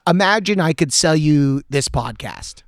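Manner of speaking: slow, smooth salesman pitch; Don Draper voice. Shown as a demonstration. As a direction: sell it like an ad man. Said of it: "Do a longer one".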